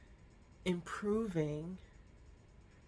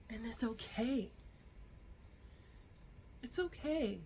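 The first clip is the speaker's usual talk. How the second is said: soft whisper; 5 semitones higher, 6 dB quieter than usual. Real, not acted. Comforting the viewer.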